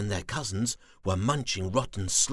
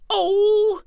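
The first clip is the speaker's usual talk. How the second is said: grumbling; 12 dB louder than usual. Acted. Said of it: "he grumbled".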